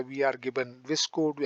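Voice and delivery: very slow, word by word for the class; slow classroom dictation. Shown as a demonstration. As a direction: spell it out slowly for students to copy. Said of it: "ऐसे बोलते रहो".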